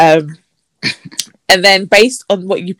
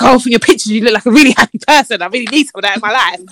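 mocking over-keen suitor, slightly higher; put-on enthusiastic voice; 4 semitones higher, faster than usual. Reading out his message to her friends, mock gushing. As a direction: rush it like a gushing match. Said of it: "why are you doing that voice?".

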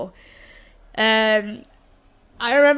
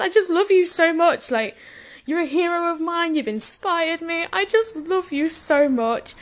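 higher-pitched, mildly gushing admiration; retold blurting; 5 semitones higher than usual. Fan pouring out admiration to wrestler, retold blurting. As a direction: gush like a starstruck fan. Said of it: "like, blurting".

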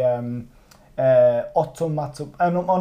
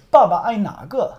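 higher, louder question with "naga" lifted at the end; 6 semitones higher, 5 dB louder than usual. Shown as a demonstration. Teacher asks the student again, questioning tone on "naga". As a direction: ask it clearly, raising "naga". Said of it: "So I ask you again".

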